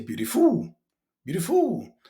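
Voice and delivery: BEAUTIFUL mispronounced, weight thrown onto the ending; wrong pronunciation demo. Shown as a demonstration. Teacher mimics a learner's mistake, mispronounced BEAUTIFUL. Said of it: "you don't say beautiful".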